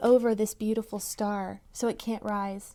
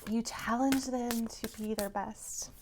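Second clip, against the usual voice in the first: emotional; 7 dB quieter than usual. Real, not acted. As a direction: hold back tears as you say it. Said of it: "I don't know why I'm getting so emotional".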